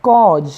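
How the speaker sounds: कॉज said with one long open aw; कॉज with aw vowel. Shown as a demonstration. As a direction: hold an aw in कॉज, ending on a j sound. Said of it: "इसका उच्चारण अ हो जाता".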